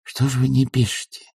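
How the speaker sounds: quiet question. Acted. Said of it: "тихо спросил Алексеев".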